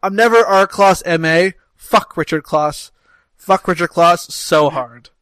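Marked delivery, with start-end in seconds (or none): 1.8-5.1 slow and deliberate, word by word; drawn-out exasperated curse; slow, emphatic venting. Real, not acted. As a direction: spell out your grudge slowly. Venting about man with similar name.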